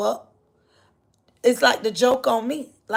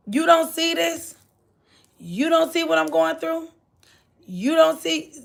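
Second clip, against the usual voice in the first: mock complaining believer; 5 semitones higher than usual.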